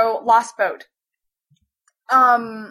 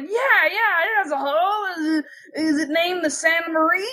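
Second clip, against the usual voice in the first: lightly voiced excited guy, higher; eager boat owner; 4 semitones higher than usual. Boat owner checking it is his boat, mildly excited voice.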